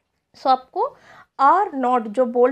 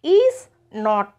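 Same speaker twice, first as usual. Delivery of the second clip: whispered is not; 3 semitones lower, 5 dB louder than usual. Shown as a demonstration. Teacher to class, whispered model of is not. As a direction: breathe out is not, no voice. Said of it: "Let us learn about this".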